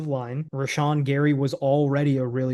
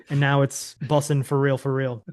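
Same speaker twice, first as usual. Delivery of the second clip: ironic zoomer. Pretend. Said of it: "I'm gonna talk like a Gen Z".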